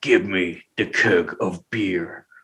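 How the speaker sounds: low, guttural, very slow voice. Act out Scott trying to get a keg at the liquor store, low guttural Scott from Teen Wolf voice. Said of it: "that's just a great impersonation there".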